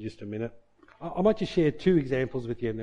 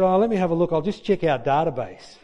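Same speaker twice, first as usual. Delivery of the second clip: louder, breezy pretend check; a caller hears him pretending to look it up, louder and breezy; mock casual checking; 2 semitones higher, 5 dB louder than usual. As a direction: play it cool as if scanning the books. Pretends to search for tutor.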